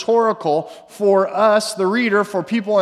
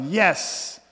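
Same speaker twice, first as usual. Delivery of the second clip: a mildly raised voice proclaiming praise; lightly louder joyful praise. Retold or imitated. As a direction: call it out like a testimony. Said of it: "Praised God in a loud voice".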